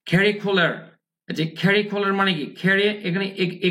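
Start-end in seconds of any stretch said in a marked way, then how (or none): 2.6-2.8 "Carry" said slowly with an open e, kheri; pronunciation demo. Shown as a demonstration. Teacher shows students the e-like vowel, slow pronunciation demo. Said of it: "একারের মতো হবে".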